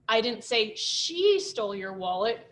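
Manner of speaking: "she" lifted and stressed. Shown as a demonstration. Teacher showing the stress game, weight on "she". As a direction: lean on "she". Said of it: "stressing all the different words".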